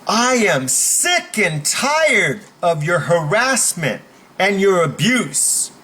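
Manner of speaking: slow, emphatic complaint; loud public protest. Shown as a demonstration. Coach demos calling out abuse for everyone to hear, emphatic protest. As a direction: announce it for everyone, slowly. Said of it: "you say it loud enough so everyone".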